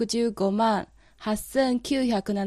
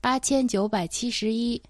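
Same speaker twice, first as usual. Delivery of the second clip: dictating. Shown as a demonstration. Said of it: "頑張ってそれを聞き取ってください".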